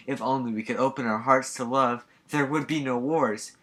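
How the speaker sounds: lightly voiced saintly preacher, mock serene; a hint of a syrupy saint, slowing on wars; Mother Teresa. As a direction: preach peace with mock sincerity. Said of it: "Mother Teresa".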